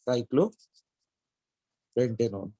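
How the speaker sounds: cyclopentanone stretched very slowly, syllable by syllable; drawn-out name. Shown as a demonstration. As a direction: drag out cyclopentanone as if writing it on the board.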